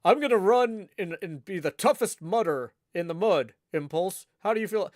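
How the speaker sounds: attempted impression of an excitable podcaster; lightly put-on hype-man voice; Skiz. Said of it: "I don't know if I could do a Skiz voice".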